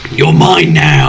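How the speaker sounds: slow, low-pitched pretend yell; mock kidnapper yell. Co-host as kidnapper breaking out of whispering, low mock yell. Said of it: "then you just yell".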